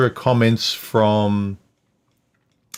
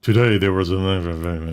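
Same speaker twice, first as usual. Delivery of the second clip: slow, deliberate newsreader voice; news reporter voice; 3 semitones lower, slower than usual. Retold or imitated. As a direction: read it like the evening news. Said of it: "you talk like a news reporter".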